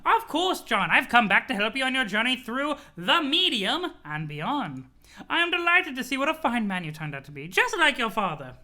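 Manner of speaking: put-on proud old grandma voice; fond grandmother, pleased with him; Nana voice. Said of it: "You love my Nana voice?".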